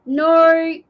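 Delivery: insistent mock denial, stretched "no"; imitated denial. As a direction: wave the worry away with a rising, drawn-out "no". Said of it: "You want to go".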